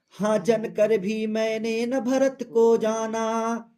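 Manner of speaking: slow, measured verse reading; poem recitation. Acted. Teacher reading Kaikeyi's verse to students, slow recitation. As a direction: recite it slowly, line by line.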